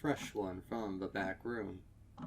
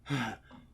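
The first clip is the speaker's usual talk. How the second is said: ragged gasp; 2 semitones higher than usual. A narrator's reading. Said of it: "chest heaving with every ragged breath".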